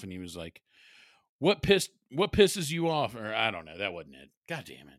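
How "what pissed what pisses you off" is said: high, loud mock yell of a kid; stretched-out mock-outraged question; imitating son yelling. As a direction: belt it out slowly like an indignant child. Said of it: "at my son yelling".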